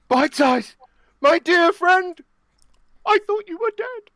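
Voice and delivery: high, loud overjoyed greeting; overjoyed high character voice; joyful reunion cry. Acted. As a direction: greet your friend back from the dead. Character greets lost friend.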